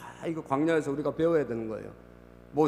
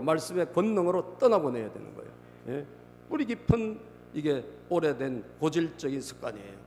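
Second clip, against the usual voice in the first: ordinary delivery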